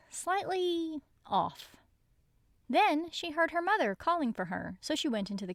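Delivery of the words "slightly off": slow, high and hushed; eerie. A narrator's reading. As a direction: draw it out eerily. Eerie narration.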